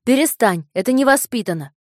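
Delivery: put-on high, loud scolding boy. A narrator's reading. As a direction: scold him hotly like a child.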